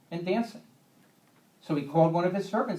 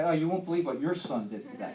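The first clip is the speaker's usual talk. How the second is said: exasperated mom. Retold or imitated. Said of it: "she'll say".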